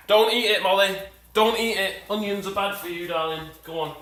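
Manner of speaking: talking around a wooden spoon; spoon in mouth. Real, not acted. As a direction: mouth half blocked by a spoon. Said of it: "why do you have a spoon in your mouth?".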